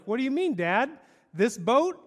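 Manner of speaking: mock-innocent teasing question; defiant kid. Nemo teasing his dad about the boat, mock-innocent. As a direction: play dumb, daring the dad. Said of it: "And he's like".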